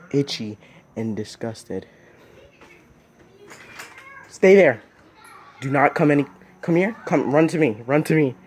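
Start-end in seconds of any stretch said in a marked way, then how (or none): 4.3-8.3 loud urgent calls, higher pitched; shouting to a friend to come quickly; calling out. Real, not acted. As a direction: shout for them to run over. Calling someone across the yard.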